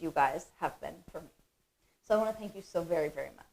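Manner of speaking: softly choked up with gratitude; emotional. Real, not acted. CEO thanking the people who believed in her, emotional. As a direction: trail off softly, moved and humbled. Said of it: "I'll stop being emotional now".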